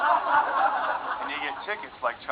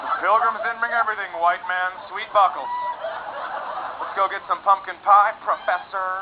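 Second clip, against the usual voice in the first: mock taunt; 3 semitones higher than usual. Mocking rude friend, acted.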